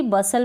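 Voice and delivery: बसल said with a silent t, ba-sal; बसल, no t sound between s and l; बसल, short clean ba-sal; correct pronunciation. Shown as a demonstration. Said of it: "बस्टल नहीं पढ़ेंगे".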